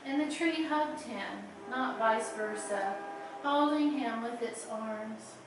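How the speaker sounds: measured poetry reading with pauses between phrases; lingering on line endings; poem reading. Acted. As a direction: read your poem aloud in unhurried, deliberate phrases. Reads own poem aloud.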